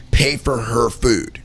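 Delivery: slow inner voice. Retold or imitated. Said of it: "and I'm hearing".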